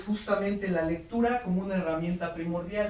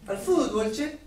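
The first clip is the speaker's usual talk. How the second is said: put-on Argentine accent; 2 semitones higher, 3 dB louder, slower than usual. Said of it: "los argentinos ... dicen fútbol".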